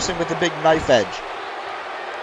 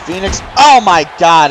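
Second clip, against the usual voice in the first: excited shout; 6 dB louder than usual. Real, not acted. Big move in the match.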